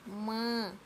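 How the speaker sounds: माँ held, sounded through nose and mouth; nasalized vowel demonstration. Shown as a demonstration. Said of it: "नाक और मुंह". (माँ, नाक और मुंह से लंबी ध्वनि)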